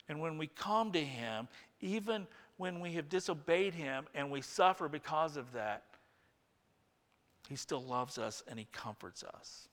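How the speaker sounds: soft, gentle, reassuring; tender reassurance. Real, not acted. Pastor reassuring the church of God's love, soft and tender. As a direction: let it fall soft and tender. Tender turn after mocking.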